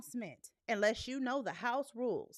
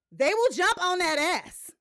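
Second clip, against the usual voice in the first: higher, louder, laughing through it; laughing threat; 7 semitones higher, 8 dB louder than usual. Real, not acted. Host warning trolls her chat will attack, laughing. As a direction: cackle as you threaten.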